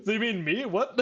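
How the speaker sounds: high, puzzled voice; be baffled and a bit offended; high-pitched mock bewilderment; confused Free. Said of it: "And Free is like".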